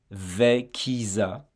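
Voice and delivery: Vekisa said slowly, syllable by syllable, for repetition. Shown as a demonstration. Teacher drilling students on the linked sounds. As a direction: stretch Vekisa out so students can copy it. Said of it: "Vous allez répéter après moi".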